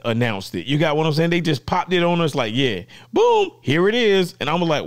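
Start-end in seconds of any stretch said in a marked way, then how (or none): 2.6-4.3 high, punchy mock reveal; excited announcement. Retelling how Rode popped it on us, excited announcement. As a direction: act out a surprise drop with a high boom.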